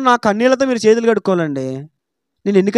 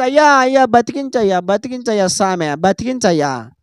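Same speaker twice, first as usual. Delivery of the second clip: fading, lower pleading moan; mock beg, sinking to a low whimper; begging the doctor; 5 semitones lower than usual. Patient begging the doctor to save him, imitated in a sinking plea. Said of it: "doctor గారి దగ్గరికి వెళ్ళి దండం పెట్టేసి".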